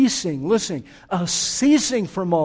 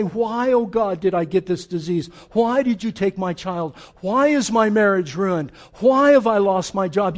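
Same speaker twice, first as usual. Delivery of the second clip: anguished lament; 4 dB louder than usual. Pretend. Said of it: "you can cry out and lament to Him".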